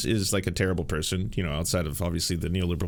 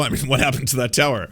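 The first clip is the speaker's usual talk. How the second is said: much higher, laughing mock theorist; teasing conspiracy voice; 5 semitones higher than usual. Teasing co-host about conspiracies, high laughing mockery. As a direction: tease him like a giggling truther.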